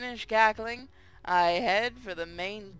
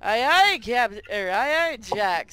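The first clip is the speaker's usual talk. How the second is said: parrot voice; 6 dB louder than usual. Acted. Parrot squawks at captain.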